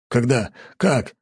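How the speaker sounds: rising, a touch overplayed shock; feigned surprise. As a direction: act astonished. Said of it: "Изобразить искреннее изумление". (изображённое изумление)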